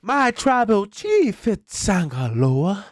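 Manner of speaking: high, slow proclaiming yell; hype shout. Acted. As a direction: proclaim it to the arena. Mock acknowledging like Roman.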